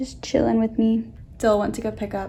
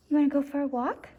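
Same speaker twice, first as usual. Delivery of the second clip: talking to a dog; 4 semitones higher, much faster than usual. Real, not acted. Asking the dog about a walk.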